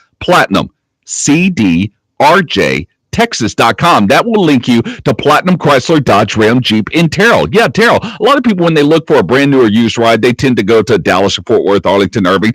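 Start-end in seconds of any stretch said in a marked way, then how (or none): 0.2-4.1 very slow, drawn-out, deliberate delivery. Repeating a website address for listeners after being told to say it slow. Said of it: "Say it slow".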